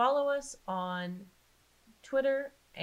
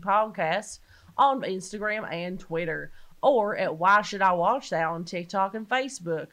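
Southern accent; 6 dB louder than usual. Shown as a demonstration. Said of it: "do it in the Southern accent".

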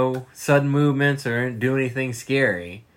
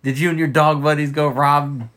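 lightly silly quizzing of a dog; a touch of doggy talk; pet-talk voice; 2 semitones higher, 4 dB louder than usual. Acted. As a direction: tease a pet with mock questions. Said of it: "when we talk in that voice".

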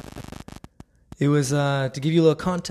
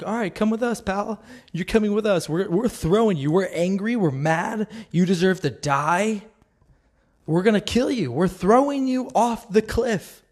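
mock angry mob; 5 semitones higher than usual. Angry mob voiced as they drag Jesus to the cliff. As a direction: ham up a rough mob dragging someone off.

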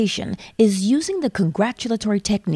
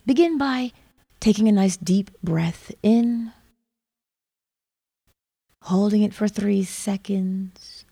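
guided meditation. Acted. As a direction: ease the listener into calm.

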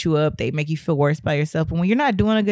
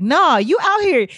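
raised, emphatic teammate encouragement; insistent retold pep talk; uplifting pep talk; 5 semitones higher than usual. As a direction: imitate teammates firmly talking you up. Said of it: "they uplifted and empowered me".

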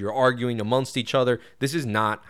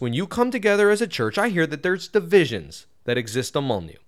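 emphatic Bible reading, often raised; scripture reading; 2 semitones higher, 3 dB louder than usual. Acted. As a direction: read the verses out with emphasis. Reads the Bible passage aloud.

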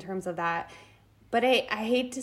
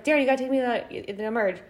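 urgent; 3 semitones higher, 4 dB louder, much faster than usual. Retold or imitated. Urgent plea to husband.

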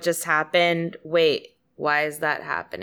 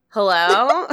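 a loud, laughing call of hello into a dead line; 2 semitones higher, 5 dB louder than usual. Retold or imitated. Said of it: "and I was like".

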